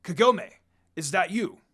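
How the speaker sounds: mild call, then question. Acted. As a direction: call her name across the forest. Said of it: "yelled from far away".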